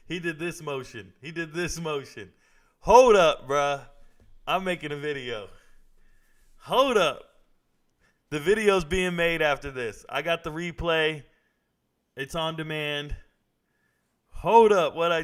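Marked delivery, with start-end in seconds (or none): 2.8-3.8 startled shout. Real, not acted. Startled reaction to the broadcast. 6.6-7.2 high, loud call to stop; real raised-voice interruption; startled shout. Real, not acted. Startled reaction to the broadcast. 14.3-15.2 sudden high, loud outburst; real high yell of surprise; startled shout. Real, not acted. Startled reaction to what was seen.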